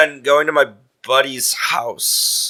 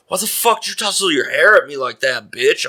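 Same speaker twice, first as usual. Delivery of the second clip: mock-aggressive, higher-pitched accusation; retold aggressive challenge; 5 semitones higher than usual. Shirtless guy confronts a passerby over his hair, mock-aggressive. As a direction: act out a stranger picking a fight.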